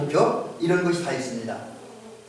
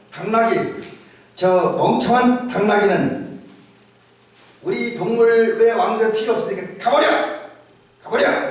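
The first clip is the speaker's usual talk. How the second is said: sermon-story animal yelling, climbing higher; mock shout; 3 semitones higher than usual. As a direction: shout them off, rising on the second 가버려. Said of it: "이렇게 어떤 동물이 소리쳤어요".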